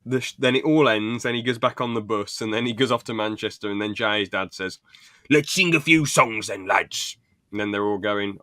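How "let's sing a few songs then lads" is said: raised, louder imitation of a dad; rally them in a put-on hearty voice; mock rallying dad. Jay's dad to the lads on the bus, mock rallying call.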